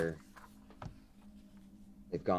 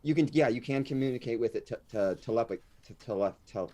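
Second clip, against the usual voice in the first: tipsy stumbling; 2 semitones higher than usual. Real, not acted. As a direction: stammer on it like you're a bit sauced. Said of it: "Sorry, I'm a little sauced".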